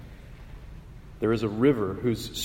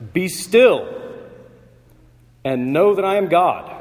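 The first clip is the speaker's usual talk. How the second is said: much louder and higher, a commanding shout; 6 semitones higher, 7 dB louder than usual. Shown as a demonstration. God silencing the raging nations, a thunderous commanding shout. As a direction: ring it out like an operatic crescendo. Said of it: "shouted out almost".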